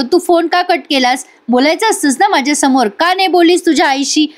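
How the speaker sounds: a retold husband snapping at his wife, pitch up; irritated demand. Reviewer voicing angry Advait confronting Kala, mild mock anger. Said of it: "पण आता अद्वैत चिडतो".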